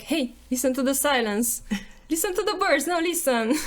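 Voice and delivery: giggling through the words; laughing self-quote. Retold or imitated. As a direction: laugh while shushing friends. Quoting herself in nature.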